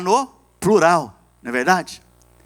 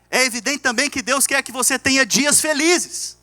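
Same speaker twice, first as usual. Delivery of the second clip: higher-pitched sermon delivery; earnest preaching; 7 semitones higher than usual. Real, not acted. Pastor teaching God's will to the church, earnest preaching. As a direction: press the point home to the congregation.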